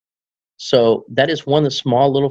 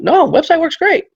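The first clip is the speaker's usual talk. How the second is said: client voice. Retold or imitated. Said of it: "He goes".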